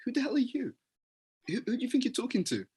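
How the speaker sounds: mock outrage at being shouted at; indignant retort. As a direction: snap back like a stung team member. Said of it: "everyone's like".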